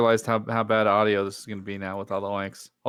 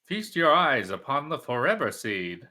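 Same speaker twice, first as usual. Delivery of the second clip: grand announcer voice; 3 semitones higher, 4 dB louder than usual. Pretend.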